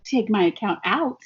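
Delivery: gleeful yay at paying a bill; excited cheer. Retold or imitated. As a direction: cheer like the bill paid itself. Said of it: "Or is it like".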